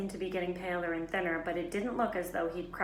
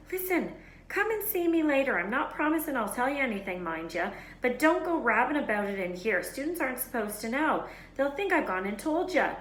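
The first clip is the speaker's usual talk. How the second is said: higher, louder rustic giant voice; gruff giant; 6 semitones higher, 5 dB louder than usual. A narrator's reading. Hagrid telling the children to come later. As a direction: warn them off kindly but firmly.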